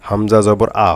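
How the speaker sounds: হামজা জবর আ, ending in a plain open আ; a short demo without the nun; harakat reading. Shown as a demonstration. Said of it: "হরকত দিয়ে পড়েছিলাম হামজা জবর আ". (হামজা জবর আ, নুন ছাড়া)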